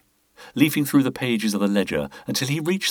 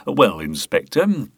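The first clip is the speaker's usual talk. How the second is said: stalling; 4 dB louder, slower than usual. Acted. Boothby buying time, cornered.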